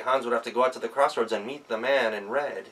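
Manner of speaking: ordinary delivery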